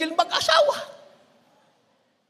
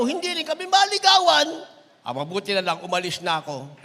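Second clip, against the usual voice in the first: put-on much softer girl's confiding voice; mock relieved girl; 4 dB quieter than usual. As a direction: hush it like a girl sharing gossip. Voices a girl about Brother Louie. (mahina at pabulong na boses ng dalaga)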